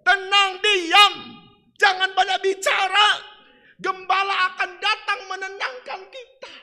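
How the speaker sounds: very loud, high "tenang, diam"; preacher thundering the call to be still; shouted command. Acted. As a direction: shout down the storm. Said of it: "preacher repeats the command".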